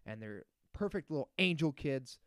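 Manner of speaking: heated rant; building irritation; getting worked up. Real, not acted. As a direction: vent like it really bugs you. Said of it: "getting worked up".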